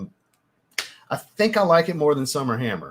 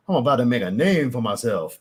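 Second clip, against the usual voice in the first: put-on actor's overdone Cajun accent; forced Cajun accent. Mimicking the movie actor's line, forced Cajun accent. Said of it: "it sounds forced".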